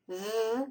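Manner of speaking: "th" buzzed with voice, as in then; isolated, voiced "th" as in then; voiced TH sound. Shown as a demonstration. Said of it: "You hear a voice".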